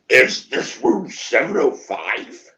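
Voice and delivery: slow, drawn-out question with rising end; puzzled question. Retold or imitated. Friend asking the room which room this is, slow and puzzled. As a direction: stretch it out as if it's slowly dawning.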